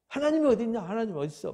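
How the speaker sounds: high-pitched challenge, then dropping; retold defiant protest. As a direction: throw it out as a scoffer's retort. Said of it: "막 이렇게 항변하는 거예요".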